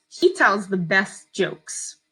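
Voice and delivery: slow, clear dictation; dictating. Shown as a demonstration. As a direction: read it out slowly for spelling. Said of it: "I'm gonna read it to you twice".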